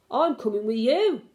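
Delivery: talking through a mouthful; words round a bite of banana; mouth full. A narrator's reading. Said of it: "speaking with his mouth full of bananas".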